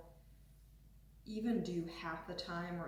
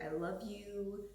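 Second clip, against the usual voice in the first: loving affirmation; 3 semitones higher, slower than usual. Shown as a demonstration. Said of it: "rub your belly and be like".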